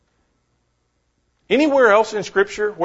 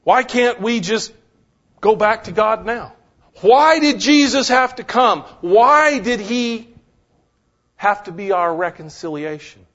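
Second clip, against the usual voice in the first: high, louder, urgent questions; impassioned questioning; 6 semitones higher, 3 dB louder than usual. Acted. Preacher demands of the congregation why Jesus came. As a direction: press each why harder.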